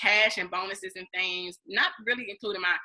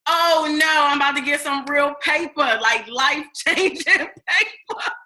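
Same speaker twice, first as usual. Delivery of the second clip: retold excitement; 4 semitones higher, 5 dB louder than usual. Retold excitement, laugh heard.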